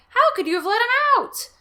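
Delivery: high, loud, exasperated; scolding. Acted. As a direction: berate the children. Father scolding kids.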